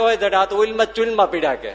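loud, high, laughing scold; laughing retort. Retold or imitated. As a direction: tease him back, laughing. (હસતાં હસતાં મહારાજનો જવાબ)

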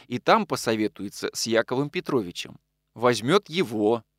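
plain reading voice

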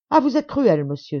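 high, loud anguished outburst; tearful young woman crying out at the baron, loud and high. A narrator's reading. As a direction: cry out at him in distress. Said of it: "s'écria-t-elle".

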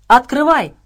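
loud, high-pitched bellow; shouted command. A narrator's reading. Everyone orders Abrams to open the door, bellowing. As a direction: bellow the order at full urgency. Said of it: "хором гаркнули все".

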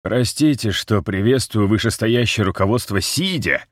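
speaking through split, swollen lips; strained, talking with battered mouth. A narrator's reading. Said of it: "с явным трудом шевеля разбитыми губами".

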